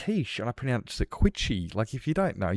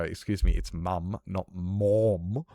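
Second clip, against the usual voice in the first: mock prissy correction; slower than usual. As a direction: play the pedant correcting an American. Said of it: "I'm not gonna go".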